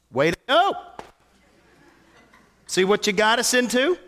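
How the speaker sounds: a hint of a sarcastic Adam blaming Eve; mock blaming Adam. Adam mock blaming Eve for the fall, lightly sarcastic. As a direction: lightly act a sulky husband pointing fingers. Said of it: "what he does not say".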